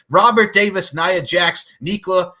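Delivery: hyped roll call of names. Real, not acted.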